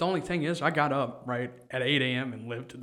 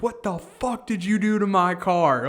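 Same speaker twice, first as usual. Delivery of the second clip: loud mock French accent, raised pitch; 6 semitones higher, 7 dB louder than usual. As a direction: bark it like an angry French woman. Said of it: "in a French accent".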